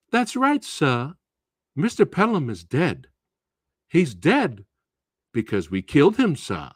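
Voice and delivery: sweetly polite menace; creepily polite student. Acted. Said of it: "this is how they talk to you".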